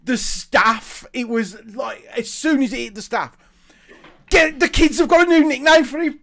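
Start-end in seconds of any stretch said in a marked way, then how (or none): 4.3-6.2 higher, eager gossip; excited gossip. Retold or imitated. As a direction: spread the juicy news. Staff gossip retold excitedly.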